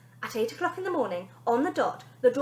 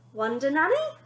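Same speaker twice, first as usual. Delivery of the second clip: incredulous; 4 semitones higher, 4 dB louder than usual. Acted. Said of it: "asked Bonnie".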